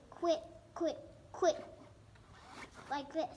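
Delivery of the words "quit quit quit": quick repeated duck quacks; duck call quacks. Shown as a demonstration. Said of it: "just say".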